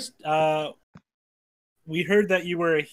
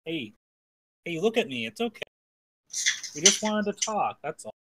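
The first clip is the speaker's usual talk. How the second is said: soothing; 5 semitones higher than usual. Acted. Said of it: "I say".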